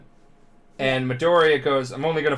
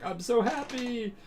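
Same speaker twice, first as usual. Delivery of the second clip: high, slow, weepy squeal; mock happy crying; 11 semitones higher, 5 dB quieter, slower than usual. Boy crying like geysers over his teammate, mock happy crying. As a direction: overcome with pretend tears of joy. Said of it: "him crying like geysers".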